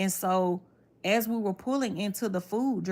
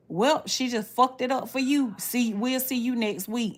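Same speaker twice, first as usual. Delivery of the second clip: rude mock imitation; 5 semitones higher than usual. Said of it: "that's how she said it, so rude".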